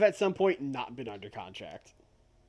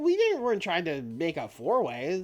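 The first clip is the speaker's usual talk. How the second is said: much higher, panicky stammer; flustered Fletcher; 10 semitones higher, 5 dB louder than usual. Acted. Fletcher excuses himself to Zack, high and flustered. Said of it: "Fletcher being like".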